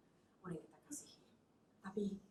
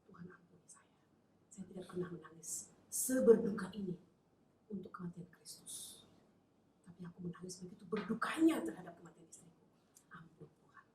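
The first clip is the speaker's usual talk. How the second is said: whispered repentance; 3 semitones lower than usual. Acted. Widower begs God's forgiveness, hushed whisper. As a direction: whisper it like a broken confession. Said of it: "Langsung dia minta ampun kepada Tuhan".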